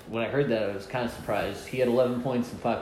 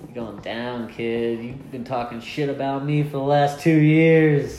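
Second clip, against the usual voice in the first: mock trash talk; 4 dB louder than usual. Rival calls out the kid who doubted him, mock-angry. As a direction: start contained, swell into a mock-angry callout. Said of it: "looking at you like".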